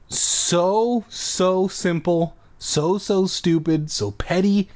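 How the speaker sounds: high, drawn-out "so"; slow and insistent on every "so"; emphatic repetition. Real, not acted. Emphatic opinion on annoying repetition.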